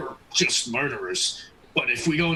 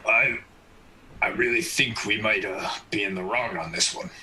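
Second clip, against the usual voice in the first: low voice fading toward a whisper; hesitant admission; 4 semitones lower than usual. Acted. Karamis to party after the stabbing, hesitant and hushed.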